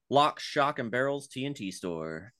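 ringmaster. Acted. Grand announcement of pitch name.

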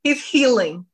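whispered realization; hushed, knowing aside. Retold or imitated. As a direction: breathe it as a secret. Realizing he's not over ex.

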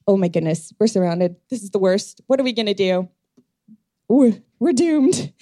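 a frightened servant losing it by the end; panicked servant. Acted. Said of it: "his servant who is freaking out".

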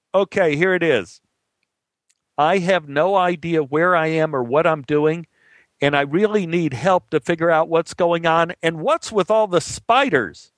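calling across. Acted. Lost man asks cops across chasm, calling out. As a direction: project bewilderment over a distance, pitch climbing.

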